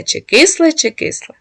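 magpie asking. A narrator's reading. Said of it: "та все питає".

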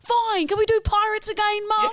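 put-on very high child voice; grudging kid. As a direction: give in to Mum, still wheedling. Acting child giving in to mum.

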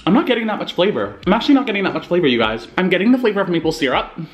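sucking hard candy; tongue moving candy aside; talking with candy in mouth. Real, not acted. Seen 1: Cheek bulges and lips purse around candy while he talks.

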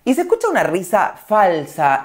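usual speaking voice

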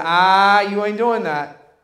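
loud "Ah", then firm refusal; retold stern rebuke; defiant rebuke. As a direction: shut the anxious feeling down. Defiant reply to rising anxiety.

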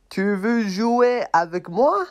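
a small friend begging to play; high puppet voice. Acted. Puppet asks the tired elephant to play, in a high voice.

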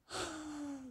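high, soft drawn-out sigh; crying gasp. Retold or imitated. Preacher recalling tears on a tour, mock crying gasp. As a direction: imitate a tearful gasp. Retelling himself starting to cry.

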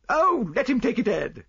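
high, loud, fretful wife; crying wife. A narrator's reading. Wife pleading with husband to let him take it, high cry. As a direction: cry out high in an anxious wife's voice. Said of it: "cried his wife".

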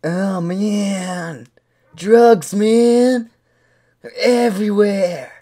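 lightly voiced hippie with stretched vowels; hippie dinosaur. Hippie dinosaur tells chat partner about drugs, hippie voice. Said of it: "hippie dinosaur".

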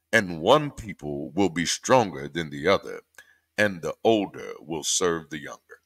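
solemn preacher cadence. Shown as a demonstration. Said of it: "I started reading that in preacher voice".

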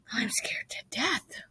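slow, high, breath-only whisper; frightened whisper. A narrator's reading. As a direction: whisper it as a scared confession. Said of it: "whispered Missus Zuckerman".

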